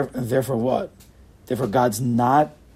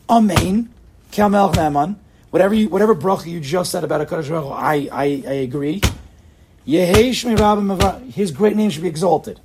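loud, high, fervent proclamation; booming, impassioned prayer; full-conviction response; 4 semitones higher, 8 dB louder than usual. Shown as a demonstration. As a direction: declare it boldly to the whole room. Showing how Amen should be said.

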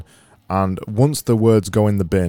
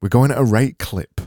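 Yorkshire accent, a touch louder, stress on rate clip; 3 semitones higher, 3 dB louder than usual. Shown as a demonstration. Host repeating the phrase in a broad Yorkshire accent. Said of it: "in a Yorkshire accent".

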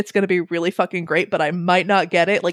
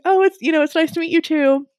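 princess voice; 7 semitones higher than usual. Retold or imitated. Voicing Snow White.

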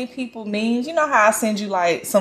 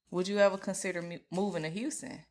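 quoting the guy; 3 semitones lower, 14 dB quieter than usual. Retold or imitated. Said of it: "he's like".

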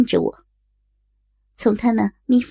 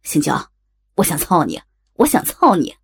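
shouting; 5 semitones lower than usual. Acted. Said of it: "冲我喊道".

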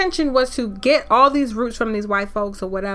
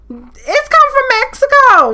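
much higher, louder and slow, drawn out; it's come from Mexico, high and amazed; incredulous repeat; 11 semitones higher, 6 dB louder, slower than usual. Real, not acted. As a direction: stretch it out in disbelief.

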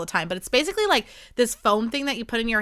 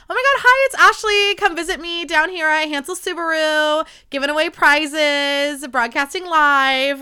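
high, loud perky radio DJ shout-out, slowing at the end; bubbly radio host voice; 6 semitones higher, 6 dB louder than usual. Shown as a demonstration. Podcaster imitating her old radio self, perky DJ voice. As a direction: gush like a cheery live-remote DJ. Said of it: "I literally sounded like this".

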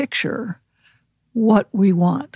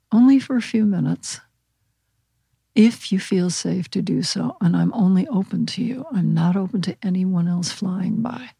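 guided visualization. Acted. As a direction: ease them into picturing their pet.

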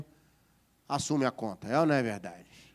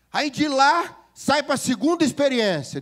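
preaching push; 7 semitones higher, 5 dB louder than usual. Real, not acted. Preaching at full force.

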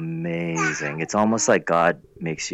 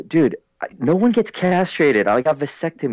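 exasperated explaining; 6 semitones higher than usual. Retold or imitated. Retelling how he corrected his friend, exasperated. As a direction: spell it out for the clueless friend. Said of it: "And I go".

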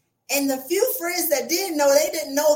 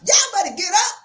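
louder, higher rallying call; louder call to the listeners to get on their feet; excited call; 5 semitones higher, 6 dB louder than usual. Real, not acted. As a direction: fire the crowd up to stand. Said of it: "I'm getting excited".

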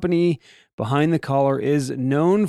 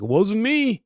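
put-on drunk denial; 6 semitones higher than usual. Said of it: "jumped into the back seat like".

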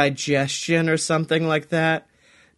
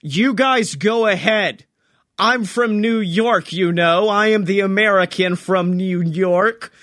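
put-on lightly drawn New York accent, hero taking a stand. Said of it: "really amazing New York accent".

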